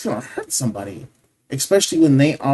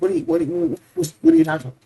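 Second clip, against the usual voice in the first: shocked disbelief; much faster than usual. Retold or imitated. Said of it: "He's like".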